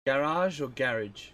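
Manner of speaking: Garage first as ga-RAHZH, then as GARR-idge, said slowly; Garage offered both ways, drawn out; two pronunciations. Shown as a demonstration. Asking chat which way to say Garage, slowly. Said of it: "do you say gara".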